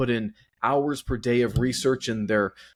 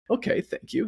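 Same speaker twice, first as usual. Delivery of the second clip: much higher, coy little voice; mock bashful thanks; 12 semitones higher than usual. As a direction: play the flattered one, pitched way up.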